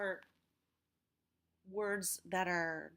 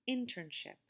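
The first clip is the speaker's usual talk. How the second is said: "internship" with IN stressed, then falling; stress on first syllable. Shown as a demonstration. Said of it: "Look at how I have marked the stress".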